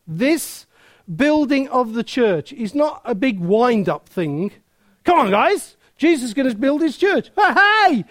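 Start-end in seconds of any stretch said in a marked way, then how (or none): 5.0-8.0 lightly mocking pep rally cheer; mock hype. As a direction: hype the crowd, half in jest. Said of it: "sort of thing".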